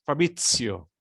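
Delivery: Fabrizio with T plus S for the Z; Italian Fabrizio, Z said like "ts"; true Italian Z. Shown as a demonstration. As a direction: show the true sound, "Fa-BRIT-tsio". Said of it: "the true sound".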